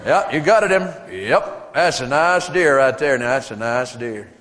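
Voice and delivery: slow, low laid-back approval; a hint of drawling hunting buddies; admiring rednecks. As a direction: nod along, impressed and easy. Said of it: "all the guys get around like".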